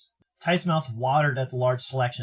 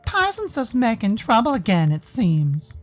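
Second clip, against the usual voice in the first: higher-pitched incredulous character voice; disapproving, exasperated figure, pitched up; scolding bystander; 7 semitones higher, slower than usual. Acted. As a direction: chide them in raised, drawn-out disbelief.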